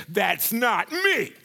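slow, drawn-out mock protest; insistent denial. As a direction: stretch out each word in acted denial. Acted repeated denial by Peter.

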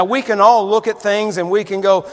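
ordinary talk, nothing marked

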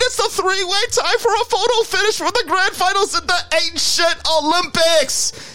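excited race commentator; race announcer. Acted. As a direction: call it like a horse race. Mock horse race commentary.

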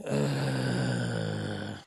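breathless, catching air; out of breath. Real, not acted. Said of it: "I'm out of breath".

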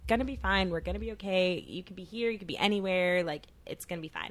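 lightly voiced calm boyfriend; reassuring. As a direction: soothe lightly, no fuss. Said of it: "So, like, that was reassuring".

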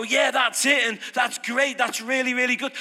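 mock congregation shouting amen. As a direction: cheer the preacher on. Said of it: "why they go".

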